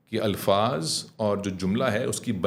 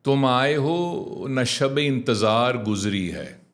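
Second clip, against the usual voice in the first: slow, fully sounded Urdu verse; clear verse recitation; much slower than usual. Shown as a demonstration. Teacher models a line of poetry for repeating, slow clear recitation. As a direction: recite it slowly, every word complete. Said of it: "تو میں ایک جملہ بولتا ہوں".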